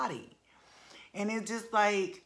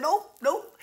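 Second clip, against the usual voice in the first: loud teasing refusal; 10 semitones higher, 7 dB louder than usual. Retold or imitated. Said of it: "I said".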